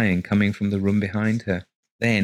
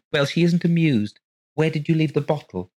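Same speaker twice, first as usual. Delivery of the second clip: wife; 8 semitones higher, 4 dB louder than usual. A narrator's reading. Wife voiced.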